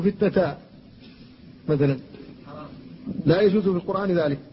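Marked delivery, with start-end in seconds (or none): 0.0-0.6 فتنة ending in alif, not allowed in the Quran; wrong ending. Shown as a demonstration. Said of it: "لا يجوز أن تقولوا".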